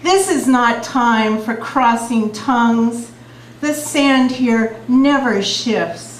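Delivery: slow, measured poetry reading; beat poetry. Acted. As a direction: let each image land slowly. Reads her poem The Window.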